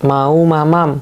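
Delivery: a hint of a small child asking for food; toddler phrase demo. Shown as a demonstration. Doctor gives parents a toddler's first phrase, a hint of a child. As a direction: say it like a toddler who wants to eat, lightly voiced.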